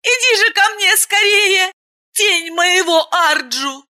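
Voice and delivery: high, teasing voice of a merry blonde; flirty blonde. Acted. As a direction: call him up to her, playfully. Blonde beckons from balcony.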